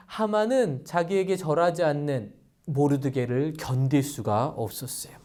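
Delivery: usual speaking voice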